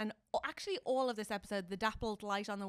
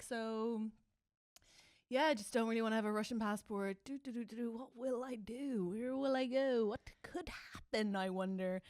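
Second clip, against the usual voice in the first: mock casual fishing. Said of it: "He's like".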